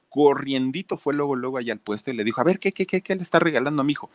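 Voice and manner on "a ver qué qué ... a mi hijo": much higher, rapid-fire stammering qué; a mother rushing in to confront; fast, shrill-pitched mock outrage; indignant mother. Mother storms up to vendor.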